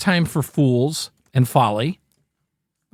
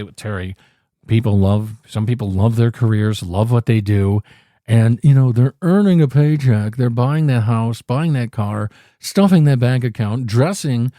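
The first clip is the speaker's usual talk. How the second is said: resting bitch face voice; 3 semitones lower than usual. Retold or imitated. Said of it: "that's my resting bitch face voice".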